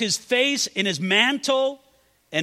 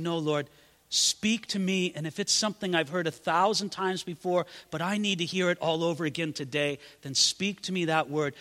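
humble prayer; 4 dB quieter than usual. Acted. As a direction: pray it quietly and humbly.

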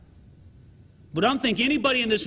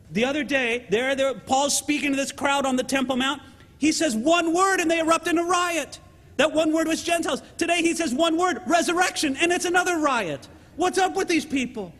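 exasperated commander; 6 semitones higher than usual. Retold or imitated. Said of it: "He goes".

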